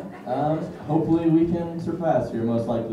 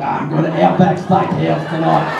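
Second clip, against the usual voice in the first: mock Australian accent; 5 dB louder than usual. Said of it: "Australians more like".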